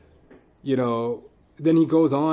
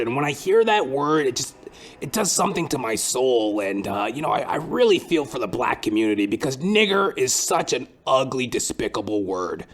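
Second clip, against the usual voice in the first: lightly voiced, fumbling earnest white guy; a hint of a halting, preachy coworker; mock sincere stammer about an ugly word; hesitant white coworker. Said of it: "The white man goes".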